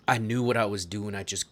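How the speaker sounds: put-on lightly southern-accented character line. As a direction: play it with a slight southern accent. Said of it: "I'm still doing the southern accent".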